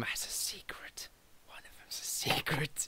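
breathy secretive whisper. Acted. Whispering the secret to his friends.

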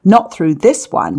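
usual speaking voice

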